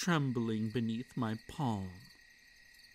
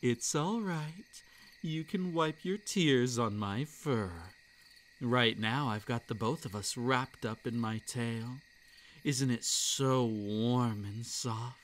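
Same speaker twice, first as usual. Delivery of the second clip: soothing furry creature. Acted. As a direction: hush her tears like a kindly beast. Furry creature comforts crying girl.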